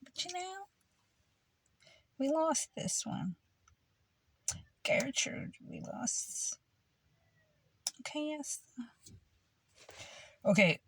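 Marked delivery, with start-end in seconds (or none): 0.0-8.6 very soft, high put-on Jewish accent; hushed mock Jewish accent, almost whispered. Telling Gertrude they lost, in a hushed Jewish accent. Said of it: "I can do a good Jewish accent".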